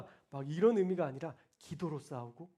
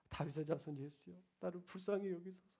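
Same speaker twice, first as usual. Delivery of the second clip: tearful plea. Retold or imitated. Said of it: "막 엉엉 울면서 기도하는데".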